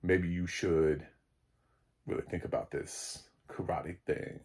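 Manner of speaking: mild imitation of a low-voiced teen; low Sean voice. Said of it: "I'm trying to do my Sean voice 'cause it's, like, really low".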